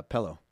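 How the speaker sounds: "pillow" with a short E; pillow as pellow. Real, not acted. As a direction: say "pillow" rhyming with "mellow". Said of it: "Pillow or pillow?".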